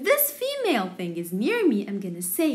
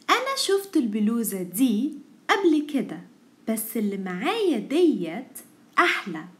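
fast Egyptian reading; much faster than usual. Shown as a demonstration. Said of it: "let's read together".

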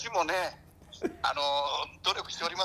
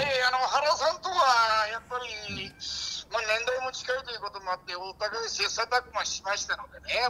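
掛布; 4 semitones higher than usual. Acted. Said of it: "掛布さん、ちょっと今日感じが違う". (掛布のものまねで高めにゆっくり語る)

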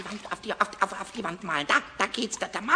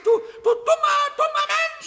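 higher indignant outburst; angry insult; 9 semitones higher, 5 dB louder than usual. Acted. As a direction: snap the insult back at him. Pumuckl insults Eder.

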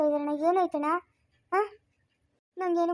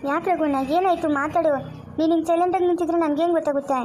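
louder, urgent questions to a silent man; anxious calling out; 5 dB louder than usual. Acted. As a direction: call out loudly, worried. Worried niece calling out to Raghu. (ಆತಂಕದಿಂದ ಜೋರಾಗಿ ಕೂಗುವುದು)

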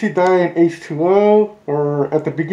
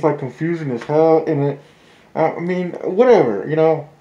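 muffled through a mask; talking behind a mask; through a face mask. Real, not acted. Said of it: "I don't know if you guys can hear me through the mask".

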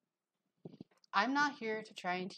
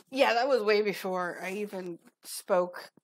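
slow words through a laugh; 3 semitones higher, 8 dB louder, slower than usual. Real, not acted. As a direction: chuckle while you say it. Laughing aside, slowed.

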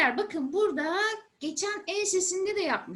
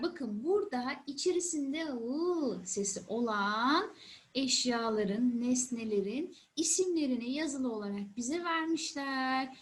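put-on patient teacher voice for kids; explaining to a child. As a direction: talk it through gently for children. Teacher talking to young children.

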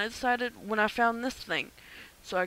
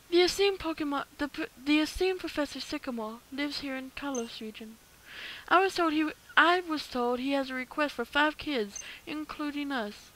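put-on girl voice; 3 semitones higher than usual. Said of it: "It's so hard to do a girl voice".

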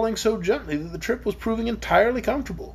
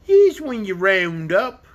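slow, louder contemptuous sneer; mock the clockwork man; 5 dB louder, much slower than usual. Dragon sneering at Tick-Tock, slow and louder. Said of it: "sneered the dragon".

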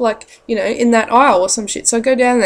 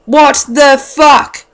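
drawn-out disbelief; 7 dB louder, much slower than usual. Real, not acted. Punchline reacting to knife.

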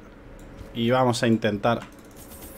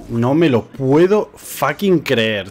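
slow, louder stunned disbelief; 3 semitones higher, 5 dB louder, much slower than usual. Real, not acted. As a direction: drag it out in shock. Disbelief at lucky result.

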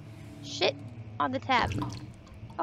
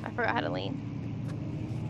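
whisper; 7 dB quieter, slower than usual. Real, not acted. Sneaking in horror game.

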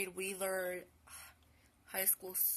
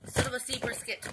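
minced curse; 4 semitones higher, 8 dB louder than usual. Real, not acted.

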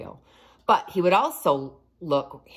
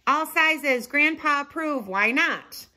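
cheerful ad voice; 10 semitones higher than usual. A narrator's reading. Shop sign read aloud.

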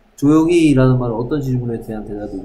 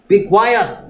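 sharp raised "Be quiet!"; teacher's "be quiet"; 7 semitones higher, 4 dB louder than usual. Retold or imitated. Native teacher hushing a noisy class, raised. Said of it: "떠들 때 갑자기 막".

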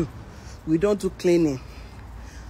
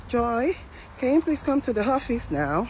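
lightly voiced manager, pitched higher; imitated manager's summons; 5 semitones higher than usual. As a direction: politely call an employee in, as mimicry. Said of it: "the manager call me".

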